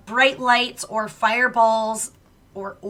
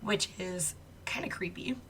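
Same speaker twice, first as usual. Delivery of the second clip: whispering; 11 dB quieter than usual. Real, not acted. Spooky ghost story aside.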